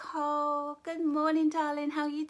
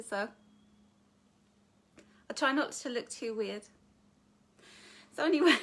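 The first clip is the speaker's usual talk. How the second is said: usual speaking voice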